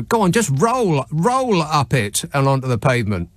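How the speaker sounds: a hint of a sergeant major urging; urging the man onto the pavement, half-hearted sergeant-major yell; retold yell. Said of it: "I was, uh, yelling at him to".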